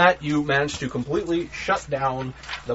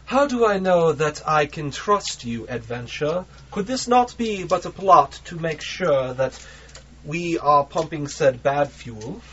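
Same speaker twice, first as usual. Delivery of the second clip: cultured voice. Acted. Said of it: "A very cultured voice answers back".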